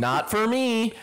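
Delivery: silly put-on voice. Repeated in put-on voice.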